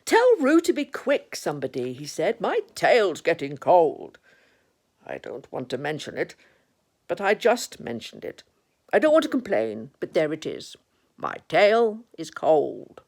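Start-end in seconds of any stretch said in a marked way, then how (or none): 0.0-1.9 complaining call, falling away; Eeyore. Acted. Eeyore with his tail in the water, complaining call. 2.4-13.0 put-upon donkey grumble; long-suffering complaint, leaning on key words; Eeyore. Acted. Eeyore with his tail in the water, put-upon grumble.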